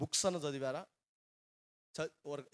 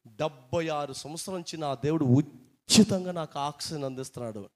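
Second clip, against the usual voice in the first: put-on 1 weeping old man; 8 dB louder than usual. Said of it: "అని ఏడుస్తున్నాడు అంట".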